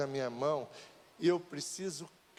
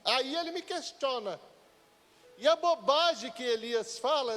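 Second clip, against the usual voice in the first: higher, urgent sermon voice; fervent preaching; 7 semitones higher than usual. Acted. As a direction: preach it out with rising heat. Preaching rises in force.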